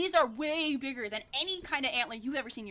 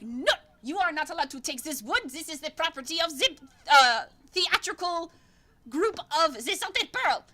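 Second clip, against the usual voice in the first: a touch louder prissy elf voice; fabulous elf; 3 semitones higher, 5 dB louder than usual. Acted. Elf telling the players the wood is his troupe's, mildly haughty. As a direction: lay down the rules like an offended diva. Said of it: "and he's like".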